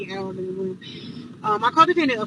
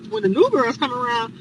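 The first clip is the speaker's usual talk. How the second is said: NEW thrown back louder, as a question; incredulous echo; 4 dB louder than usual. Retold or imitated. Visitor echoing the other girl's words, incredulous. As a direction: repeat it in disbelief, leaning on "new". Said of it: "I'm like".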